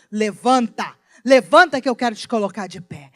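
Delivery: loud, urgent command to rise; urgent call. Acted. God calling out to a sinking believer, loud urgent command. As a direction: call the sinking one up to stand.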